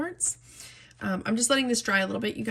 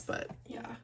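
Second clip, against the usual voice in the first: choked up; 11 semitones higher, 5 dB louder than usual. Real, not acted. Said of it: "I don't mean to get emotional".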